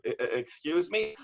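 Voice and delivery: a light flustered stammer; stammering official. Retold or imitated. City official answering the interrupting poet, mild flustered stammer. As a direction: stumble over it in shock. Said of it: "official was like".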